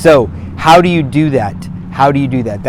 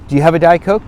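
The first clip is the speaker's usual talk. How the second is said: asking again, a little higher and brighter-pitched; host in the kitchen asked again, pitch raised; higher retry of the question; 4 semitones higher, faster than usual. Shown as a demonstration.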